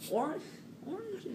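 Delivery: surprised. Retold or imitated. Stunned reaction.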